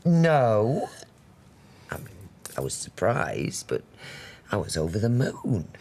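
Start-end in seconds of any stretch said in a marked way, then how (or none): 0.0-0.9 firm denial. Acted. Firmly denying daughter's claim.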